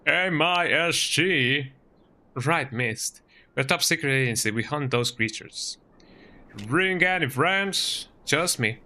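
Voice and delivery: put-on Texan accent. Game player voicing agents and locals, attempted Texan accent. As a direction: do your best Texan accent. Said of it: "my best Texan accent".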